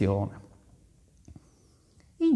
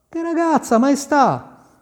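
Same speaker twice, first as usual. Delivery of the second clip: innocent gardener; 10 semitones higher than usual. A narrator's reading. Gardener plays dumb.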